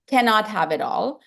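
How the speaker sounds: Indian accent, cannot said in full. Shown as a demonstration. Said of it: "Sorry, it's my Indian accent".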